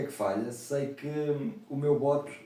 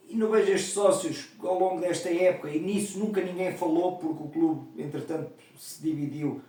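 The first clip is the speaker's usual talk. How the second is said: higher, heated complaint; indignant; 4 semitones higher, 4 dB louder than usual. Real, not acted. Loyal fan rebuking absent club members, indignant. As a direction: protest with raised pitch and rising indignation. Indignant defence against freeloader accusations.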